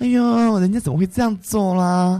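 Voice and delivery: put-on, camp, effeminate Hong Kong-Taiwan accent. Imitating an effeminate Hong Kong-Taiwan style man: effeminate Hong Kong-Taiwan accent. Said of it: "就是那种很港台腔的男生，娘腔".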